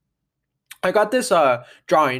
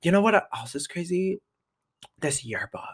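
mock ad plug; 3 semitones higher, 4 dB quieter than usual. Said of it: "then I'm like".

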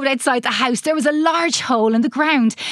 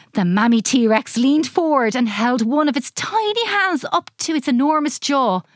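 usual speaking voice

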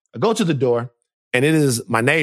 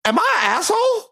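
higher, anxious plea for reassurance; worried self-doubt; 6 semitones higher than usual. Real, not acted. Host asking his cohost if he was wrong, high and anxious. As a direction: ask it up high, genuinely unsure. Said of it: "I've been feeling bad about this".

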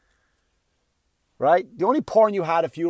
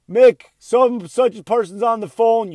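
calling upstairs; 6 semitones higher, 8 dB louder than usual. Retold or imitated.

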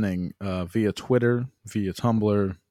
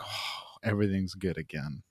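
commercial voice; 3 semitones lower, 8 dB quieter than usual. Retold or imitated. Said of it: "it's like an Oreo commercial".

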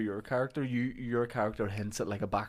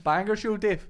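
louder, higher banger show promo; bad acting; 8 semitones higher, 6 dB louder than usual. Shown as a demonstration. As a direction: punch out Dave like a hard man. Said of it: "deliver it like a hard".

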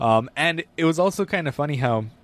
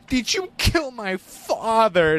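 mock dramatic daughter; 5 semitones higher, much slower than usual. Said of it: "she's like".

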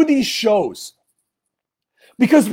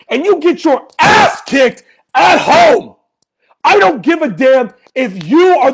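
angry shout; 2 semitones higher than usual. Real, not acted. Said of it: "why I'm screaming into the microphone".

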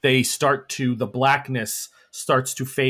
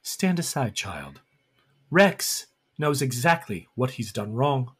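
quiet, cold command; cold elder; 2 semitones lower, 5 dB quieter than usual. Acted. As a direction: order the child aside softly. Elder ordering Rosamond aside.

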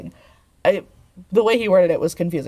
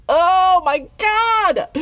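high, slow drawn-out squeal; overwhelmed with cuteness; excited squeal; 11 semitones higher, 4 dB louder, much slower than usual. Real, not acted. Overwhelmed by cute scene.

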